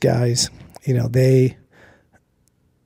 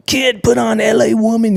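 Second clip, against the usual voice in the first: raised, slurred party voice; imitating a buzzed friend; 9 semitones higher than usual. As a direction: call out the request like a tipsy friend. Drunk friend asks for a song.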